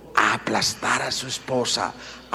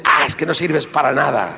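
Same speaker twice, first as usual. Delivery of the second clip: scornful husband; 4 dB louder than usual. Retold or imitated. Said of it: "empieza la agresividad".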